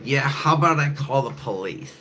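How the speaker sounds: high put-on snooty woman; woman threatening to call police, mocked; mocking woman. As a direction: threaten in a mock voice. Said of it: "she was like".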